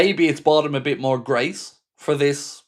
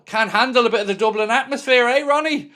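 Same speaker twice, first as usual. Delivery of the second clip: taunting; 10 semitones higher than usual. Real, not acted. Taunting Ronaldo over red card.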